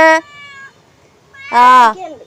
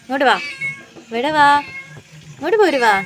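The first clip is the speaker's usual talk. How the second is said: calling the cat; 4 semitones higher, faster than usual. Real, not acted. Coaxing the rescued cat over.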